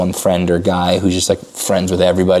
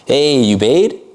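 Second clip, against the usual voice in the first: energetic tonality; 10 semitones higher than usual. Shown as a demonstration. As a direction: sound full of energy with the voice alone. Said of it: "it's just tonality".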